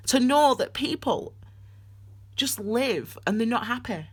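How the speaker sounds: hurting, halting confession; subdued tearful sincerity; pained, tearful. Real, not acted. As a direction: speak from real heartache, near tears. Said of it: "hopefully I'll stop crying now".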